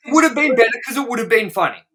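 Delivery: excited. Real, not acted. Excited follow-up through laughter.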